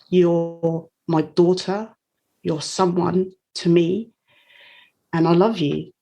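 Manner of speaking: slow, gentle quoting of a loving mum; a hint of her mum's tender voice, slowed right down. Mum comforting her daughter.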